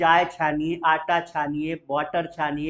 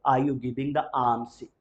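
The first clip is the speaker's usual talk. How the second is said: very slow, alms without the L; slow model question; 4 semitones lower, 3 dB quieter, much slower than usual. Shown as a demonstration. Teacher models the question and silent L, very slow. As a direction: spell it out slowly. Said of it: "L becomes silent".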